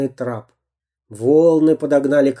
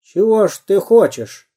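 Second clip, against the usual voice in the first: a touch of grim menace; darkening pirate; mildly sullen question; gloomy; 7 semitones higher, 3 dB louder than usual. A narrator's reading. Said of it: "помрачнел пират".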